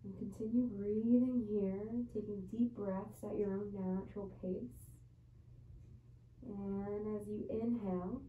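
measured yoga teacher's voice with long pauses; guided yoga meditation. Real, not acted. Yoga teacher settling students into child's pose before bed, guided meditation voice. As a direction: guide them into each breath, unhurried. Leads bedtime yoga breathing.

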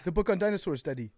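imitating a son's African accent. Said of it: "Tommy started talking in an African accent".

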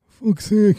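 high squeaky frustrated curse; high impediment voice. Acted. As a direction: curse the bus in a high put-on voice. Fella cursing in impediment voice.

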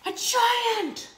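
high loud gasp of a reveal; dramatic reveal. A narrator's reading. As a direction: burst it out in alarm.

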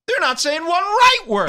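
high, loud rant. Acted. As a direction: push the mock outrage up. Ranting bit.

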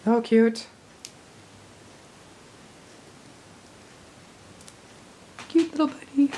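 raspy, worn-out voice; hoarse voice. Real, not acted. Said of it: "I think I'm losing my voice".

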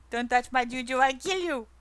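half-joking growl of ownership; mock angry warning to anyone touching the pet; mock angry threat. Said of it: "With an angry face".

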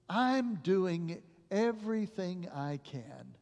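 slow, hushed sorrow; tearful doctor. Retold or imitated. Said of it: "with tears in his face".

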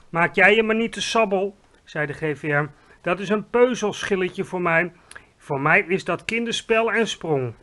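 loud, cocky big friendly giant; boasting giant. A narrator's reading. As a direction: brush off her worry with pride. Giant boasts about jump.

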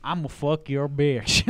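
slow, cocky Southern drawl; cocky Southern accent. Retold or imitated. Host mimicking an actor's accent for his co-hosts, cocky Southern accent. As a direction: imitate a cheap Southern accent, dragged out. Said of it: "that has cockiness to it".

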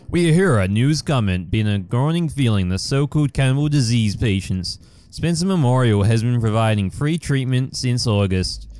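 lightly put-on newsreader voice; news accent. Shown as a demonstration. Gamer reads an in-game paper as a mild newscaster. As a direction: read it like a hint of a TV news anchor. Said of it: "I'm gonna do my news, uh, accent".

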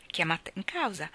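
ordinary delivery

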